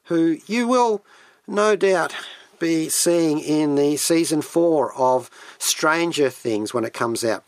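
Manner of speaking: normal talking voice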